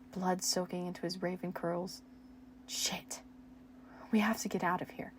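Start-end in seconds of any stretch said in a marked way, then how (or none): 2.7-5.1 forced calm whisper. Acted. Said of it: "trying to sound as calm as possible".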